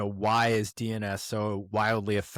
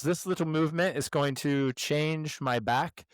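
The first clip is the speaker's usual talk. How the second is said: higher, slow, hammed-up German accent; terrible German accent; 6 semitones higher, slower than usual. Quoting the German PhD patient to the host, in a slow, mock German accent. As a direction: drag it out like a German professor. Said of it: "terrible German accent".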